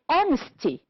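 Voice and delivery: honesty with HON high, then falling; stress on first syllable. Shown as a demonstration. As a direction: punch the start of honesty. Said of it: "two syllables before".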